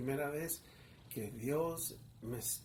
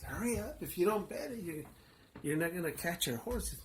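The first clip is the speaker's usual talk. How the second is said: urgent hurry; 4 semitones higher than usual. Retold or imitated. Friend urges him to hurry and bet, raised and urgent. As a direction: rush him to place the bet.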